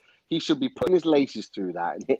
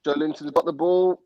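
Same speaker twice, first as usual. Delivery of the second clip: higher-pitched live match call; live play-by-play; 5 semitones higher than usual. Real, not acted. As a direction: call the attack as it unfolds. Calls live match action.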